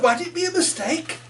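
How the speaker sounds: lilting poem reading, rising with the story. A narrator's reading. Author reading her heron poem aloud, lilting. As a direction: tell the tale in verse.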